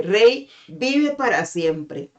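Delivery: slow, courteous royal greeting; a polite, unhurried hail to the king; courteous reply. Acted. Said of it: "una respuesta cortés de parte de Daniel".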